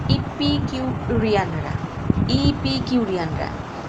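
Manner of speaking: ইপিকিউরিয়ানরা said slowly, syllables drawn out; careful pronunciation. Shown as a demonstration. Teacher showing students a tricky pronunciation, ইপিকিউরিয়ানরা slow and careful. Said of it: "এর উচ্চারণটা তোমাদের problem হবে".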